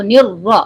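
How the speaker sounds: "نر را" with n joined into a held, heavy r; Nun joined to Ra. Shown as a demonstration. Teacher models joining nun to ra, heavy "را". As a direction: press the tongue firmly for a thick "را". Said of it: "نون کو را سے ملاتے ہوئے".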